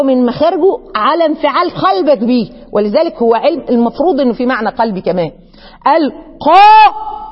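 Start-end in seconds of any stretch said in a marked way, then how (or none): 5.9-7.2 القاء stretched very slowly, loud and high, the ق struck hard; heavy qaf. Shown as a demonstration. Teacher demonstrating the startling qaf sound, loud and slow. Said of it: "اتخضيت برضه الصراحة".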